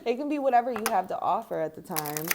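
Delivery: laughing through the words; giggling mid-sentence. Real, not acted. Laughs while explaining giving.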